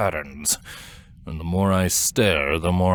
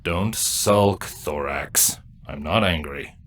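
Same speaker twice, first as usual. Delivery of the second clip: gentle, slightly lowered reassurance; softer tone; 5 semitones lower, slower than usual. Acted. Reassuring a sulking younger broodmate, in a softer tone. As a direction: ease off and let the voice sink. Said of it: "My tone is softer now".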